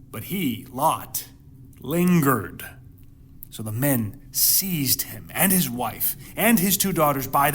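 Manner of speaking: measured, solemn reading of the Bible passage; hushed, dramatic scripture reading. Acted. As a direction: read the verses like a storyteller at the pulpit. Reads scripture passage aloud.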